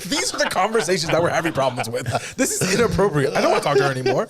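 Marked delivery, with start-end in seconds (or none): 2.4-4.3 laughing. Real, not acted. Laughing, scandalized by the AI.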